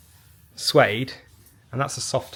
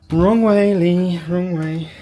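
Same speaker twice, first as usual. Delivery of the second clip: calling out; 6 semitones higher, 9 dB louder, slower than usual. Real, not acted. Calling to someone facing away.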